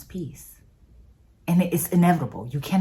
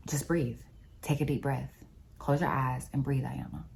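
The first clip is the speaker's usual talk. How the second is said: softly spoken; 2 semitones lower, 7 dB quieter than usual. Retold or imitated. God calms the panicking dreamer, softly spoken. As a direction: imitate a gentle voice, dropping softer at the end. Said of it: "He said it so softly".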